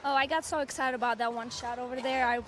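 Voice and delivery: lost her voice, hoarse and strained. Real, not acted. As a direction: talk through a worn-out hoarse voice. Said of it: "As you can hear, I lost my voice".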